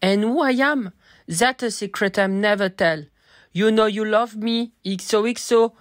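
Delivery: slow hammed-up gossip narrator. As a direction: ham up the teen drama narrator. Gossip Girl parody narration.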